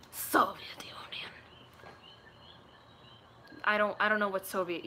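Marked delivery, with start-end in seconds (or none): 0.1-1.3 slow, whispery Russian accent; hushed, drawn-out Russian accent. Shown as a demonstration. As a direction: stretch it out in a mock Russian voice. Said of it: "I know about the Russian accent".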